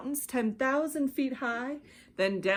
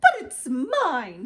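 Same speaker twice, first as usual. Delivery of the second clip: loud, slow mock scream; screaming bird; 4 semitones higher, 7 dB louder than usual. A narrator's reading. Maisie screaming to reclaim the egg. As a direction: claim it back with indignation. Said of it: "screamed the bird".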